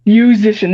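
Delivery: "Musician" opening like "you", with an sh ending; corrected pronunciation. Shown as a demonstration. Guitarist working out the app's name, carefully pronounced "Musician". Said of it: "that's how you pronounce it".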